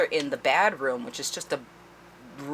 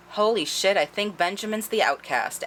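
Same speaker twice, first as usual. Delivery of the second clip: shocked realization; 6 semitones higher than usual. Retold or imitated. Tess realizing.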